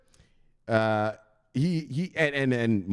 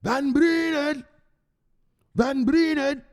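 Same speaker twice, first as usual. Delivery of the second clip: held-back call; 5 dB louder, much slower than usual. Real, not acted. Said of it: "I can't even yell right now".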